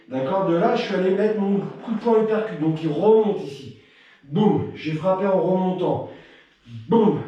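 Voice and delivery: slowed-down walkthrough of each strike; slow demonstration. Shown as a demonstration. Coach replays the combination slowly for a student, deliberate and calm. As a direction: coach slowing the combo on request, calm and unhurried. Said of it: "Je refais le mouvement doucement".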